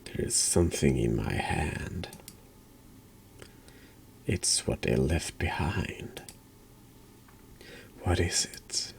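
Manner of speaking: soft, near-whispered reading of game lines; hushed reading. Acted. Player reading the game's text in a hushed whisper. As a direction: breathe the words out quietly, slowed.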